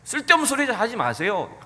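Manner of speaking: 가볍게 나무라는 말투; 살짝 핀잔주듯 말하기; 약간 질책하듯이. Retold or imitated. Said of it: "약간 질책하듯이". (예수님을 나무라는 베드로, 가벼운 질책)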